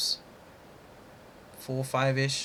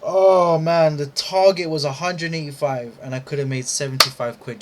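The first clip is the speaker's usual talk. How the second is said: frustrated exclamation; 4 semitones higher, 5 dB louder than usual. Real, not acted. Counting the lost profit.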